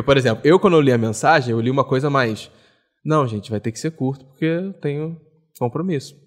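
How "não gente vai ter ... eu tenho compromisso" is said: easygoing, matter-of-fact reading; not rude. Retold or imitated. Friend defending how he read a colleague's message, without rudeness. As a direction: read it softly as plain information. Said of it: "Não li com uma entonação de ser grosseiro".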